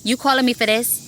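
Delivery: incredulous. Retold or imitated. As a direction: let the caller hear you can't believe they called. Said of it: "you can't say it like that on the phone".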